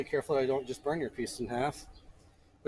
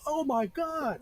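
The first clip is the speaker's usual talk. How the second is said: high, loud shocked outburst; yelled exclamation, pitch shooting way up; startled yell; 8 dB louder, much slower than usual. Retold or imitated. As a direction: blurt it out at full voice in sudden shock. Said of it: "Like, yelled at in the middle".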